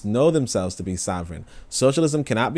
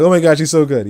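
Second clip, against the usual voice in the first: gushing fan; 6 semitones higher, 9 dB louder than usual. Retold or imitated. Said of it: "I'm like".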